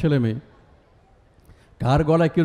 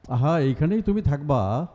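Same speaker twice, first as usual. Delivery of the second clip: lightly imitated tutor in regional Bengali; regional Bengali accent; 2 semitones higher than usual. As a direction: reassure the student in a regional Bengali lilt. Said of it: "উনি একটু আঞ্চলিক ভাষায় কথা বলতেন". (হালকা আঞ্চলিক বাংলায় শিক্ষকের নকল)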